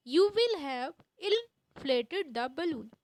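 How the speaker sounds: slow, measured model sentence; each word spaced out; slow dictation. Shown as a demonstration. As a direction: say it slowly for the class to copy. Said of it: "repeated model sentence, slow".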